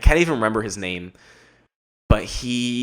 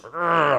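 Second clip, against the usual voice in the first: short, raised growl of aggression; pent-up growl; 6 semitones higher than usual. Retold or imitated. Vlogger acting the fighter inside him, growling. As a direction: growl like a beast held inside. Imitates pent-up beast while running.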